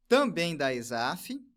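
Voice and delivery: usual speaking voice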